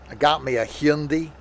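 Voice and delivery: lightly imitated American, Hyundai as "hyun-dee"; mock American. Mocking American car owners, light American imitation. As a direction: put on a slight American boast. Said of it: "they pronounce it wrong".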